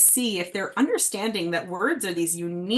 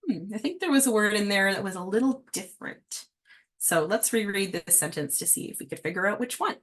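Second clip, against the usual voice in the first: gentle prompting. Shown as a demonstration. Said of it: "I typically like to say".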